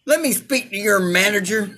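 entitled customer demanding a manager; whiny Karen complaint. Pretend.

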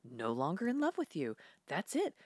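retold get-out yell, lightly performed; kicking him out. Quoted woman kicking man out.

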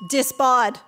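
disbar as Brooklyn "disbod"; Brooklyn accent. Acted. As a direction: drop the r Brooklyn style. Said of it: "Your Brooklyn accent was too authentic".

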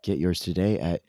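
measured radio ad delivery; announcer-style guitar advertisement; sponsor ad read. Real, not acted. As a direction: read the sponsor copy, stepping down at the end.

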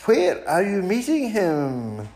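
a high owl asking, curious. Acted. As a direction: lean in like a nosy owl. Owl asks mouse.

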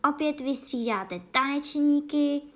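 loud, high roar. Acted. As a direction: roar it to the dancers. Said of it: "řval Gryfon".

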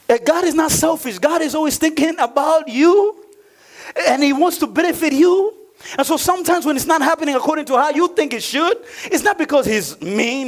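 high, emphatic sermon voice; preaching. Real, not acted. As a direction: lift the voice to assure the congregation. Preaches with raised voice.

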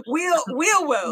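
"Wheel, wheel worlds" said slowly, W for R; teasing, slow "wheel worlds"; says w for r. Retold or imitated. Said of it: "I get a lot of wheel worlds".

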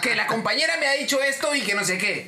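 overbearing customer repeating the demand; arrogant. Retold or imitated. Cliente que insiste en su reclamo, prepotente. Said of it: "la voz, este, prepotente".

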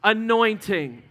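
anointing said slowly, each syllable drawn out. Shown as a demonstration. Pastor leading church in repeating, slow. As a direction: lead the room in saying anointing slowly. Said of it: "Would you say that with me?".

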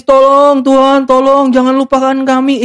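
hammed-up crying plea, stretched out; mock tearful pleading. Israelites cry to God for help, mock tearful pleading. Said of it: "mereka nangis-nangis".

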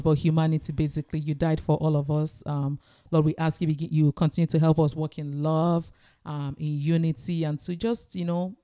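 earnest, even-toned prayer; spoken prayer. Real, not acted. Co-host closing the episode by thanking God, prayerful. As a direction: pray aloud in a measured, conversational voice.

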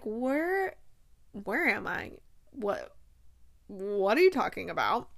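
halting, confused questions; groggy coming-to. Retold or imitated. Kate comes to after the carriage crash, mock groggy. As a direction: mimic someone waking up disoriented. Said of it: "she kind of comes to".

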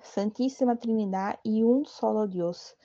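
fervent, steady devotional prayer; prayer recitation. Acted. Praying to Saint Raphael in the novena litany, humble prayer recitation.

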